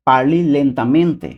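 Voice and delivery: parli lentamente drawn out very slowly; slow demo. Shown as a demonstration. Teacher modelling parli lentamente very slowly for viewers. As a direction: spell out parli lentamente syllable by syllable. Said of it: "ওকে, আমি আবার বলছি".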